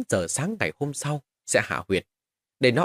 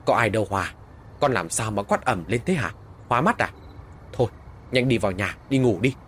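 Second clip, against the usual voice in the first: scolding. Acted. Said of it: "Mẹ tôi nạt tôi một cái".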